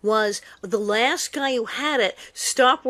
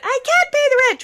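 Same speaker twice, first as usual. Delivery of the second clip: much higher, pleading damsel in distress; melodrama damsel; 14 semitones higher, 5 dB louder than usual. Retold or imitated. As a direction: wail like a melodrama heroine. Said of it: "the melodrama sketch".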